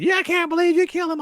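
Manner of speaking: high nagging woman's voice; lightly voiced complaining woman; mock whiny woman. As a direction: sneer it like a whining captive. Woman captive complaining, mocked.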